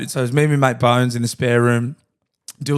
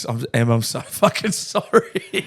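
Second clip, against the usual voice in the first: sheepish apology; slower than usual. Retold or imitated. Apologising to mate's wife.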